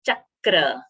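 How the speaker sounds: Chakra with an extra k closing the first syllable; "Chakra" said as "chak-kra"; doubled consonant. Shown as a demonstration. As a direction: press and hold the k in Chakra. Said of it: "ka extra sound came".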